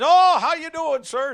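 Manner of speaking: a hint of a bright, high cashier greeting; cheerful cashier.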